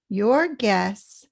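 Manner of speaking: YOUR GUESS both words stressed; equal stress. Shown as a demonstration. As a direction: give YOUR and GUESS full weight. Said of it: "equally stressed and loud".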